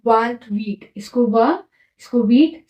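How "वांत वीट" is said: वांत वीट as "vant" plus "weet"; French pronunciation. Shown as a demonstration. Teacher modelling twenty-eight in French, वांत वीट pronounced the French way. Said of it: "क्या बोलते हैं?".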